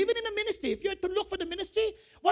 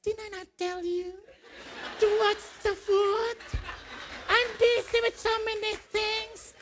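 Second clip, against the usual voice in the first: softened, higher-pitched mock-sweet scolding; suddenly gentle; 4 semitones higher than usual. Mother noticing the pastor is there, suddenly gentle. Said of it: "she began to be gentle because of my presence".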